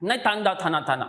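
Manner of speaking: put-on lisping थाना थाना to a toddler; mother lisping to her child; mock parent baby talk. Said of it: "ऐसे बोल".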